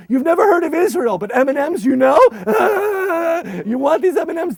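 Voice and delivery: high loud laughing tease. Retold or imitated. Tempting kids with M and M's, loud laughing. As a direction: gloat over the chocolate. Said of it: "I said".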